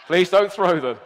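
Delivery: laughing. Real, not acted. Laughing plea about sheep.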